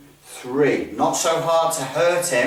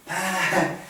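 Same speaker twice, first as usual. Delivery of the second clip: brief mock giggle; silly giggle; 3 semitones higher, 3 dB quieter than usual. Shown as a demonstration. Instructor showing students what not to do, silly giggle. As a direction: giggle like someone not taking training seriously. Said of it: "what you mustn't do is this".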